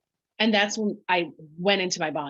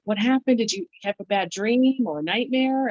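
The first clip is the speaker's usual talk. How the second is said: worried husband; 5 semitones higher than usual. Retold or imitated. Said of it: "he's like".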